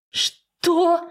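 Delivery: a daughter hearing herself called a horse; shocked gasp. Acted. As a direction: gasp the words out high in shock. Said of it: "охает Зела".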